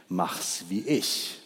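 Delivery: a drowsy badger giving advice; sleepy badger. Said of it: "sagte der Dachs". (Der verschlafene Dachs, langsam und träge)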